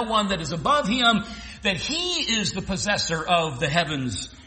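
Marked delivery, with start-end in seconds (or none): 1.6-4.3 preacher lands on "possessor"; stress on possessor. Shown as a demonstration. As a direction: lean on "possessor", draw the word out. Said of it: "thus the emphasis on possessor".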